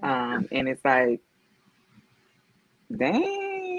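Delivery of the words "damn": mock annoyed outburst. Coworker reacts to good morning.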